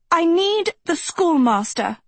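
high-pitched cry for help; desperate call. A narrator's reading. Sophie stranded on falling ladder.

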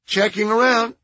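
high, nasal, timid asking. A narrator's reading. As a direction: ask meekly, high and nasal. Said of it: "High-pitched, nasal voice".

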